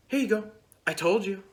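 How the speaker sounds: high, loud, pleased I-told-you-so; mock smug sister. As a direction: imitate a little sister showing off. Sister hands over the ball.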